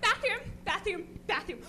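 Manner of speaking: high and loud, then a breathy yelled bathroom; mock frantic shout. Friends urging Katya to the bathroom, mock frantic shout. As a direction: hustle her to the bathroom in a hammed-up panic. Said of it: "your friends are like".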